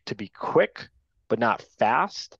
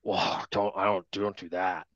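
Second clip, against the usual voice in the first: alarmed player; 4 semitones lower, 5 dB quieter than usual. Retold or imitated. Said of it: "they won't tell you in front of the other guy".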